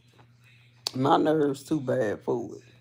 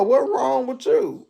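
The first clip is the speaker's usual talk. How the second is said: urgent call; 7 semitones higher than usual. Retold or imitated. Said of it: "I kept on asking her".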